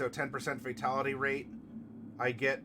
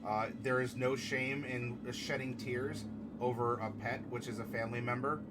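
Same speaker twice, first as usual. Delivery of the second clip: gentle condolence; 3 semitones lower, 6 dB quieter than usual. Real, not acted. Consoling Clicker over his cat, soft sincere comfort. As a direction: speak softly to a grieving friend.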